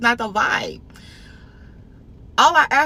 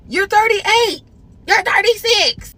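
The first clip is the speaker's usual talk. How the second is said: incredulous; 11 semitones higher, 6 dB louder than usual. Acted. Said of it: "mock outrage".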